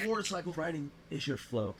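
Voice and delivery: high and hushed, wheezing with laughter; laughing mock repeat. Real, not acted. Repeating his friend's phrase, choking with laughter. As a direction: savor the phrase while cracking up. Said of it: "I am gonna piss myself".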